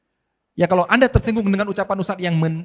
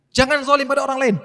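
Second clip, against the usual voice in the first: mock sermon proclamation; 8 semitones higher, 4 dB louder than usual. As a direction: boom it out like a preacher. Ustaz berkhutbah menirukan ceramah. (meniru khotbah keras dan lambat)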